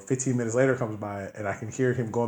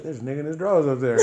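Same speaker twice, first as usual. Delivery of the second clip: startled; 4 semitones higher, faster than usual. Retold or imitated. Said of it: "he was like".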